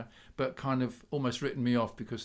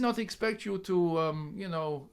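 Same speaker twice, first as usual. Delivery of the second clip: put-on Polish accent; 3 semitones higher than usual. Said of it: "I keep doing the Polish accent".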